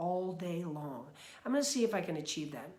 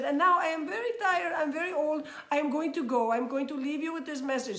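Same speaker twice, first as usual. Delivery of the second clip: Dalai Lama impression; 7 semitones higher, 3 dB louder than usual. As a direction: impersonate a tired old monk with a high, sing-song voice. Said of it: "he has a very high-pitched".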